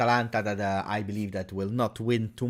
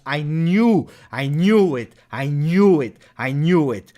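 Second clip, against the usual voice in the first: frustrated outburst; 6 dB louder, slower than usual. Real, not acted. Venting frustration at the loss.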